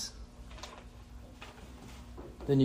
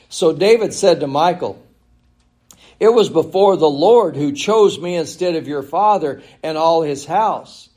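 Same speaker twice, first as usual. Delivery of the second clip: higher, projected Bible reading; scripture reading; 4 semitones higher, 5 dB louder than usual. Acted. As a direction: declaim the passage from the pulpit. Reads scripture aloud.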